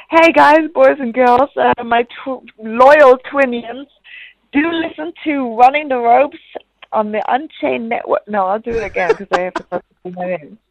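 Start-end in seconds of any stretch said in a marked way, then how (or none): 0.1-8.2 wrestling promo. Pretend. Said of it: "She Tries to Cut a Promo".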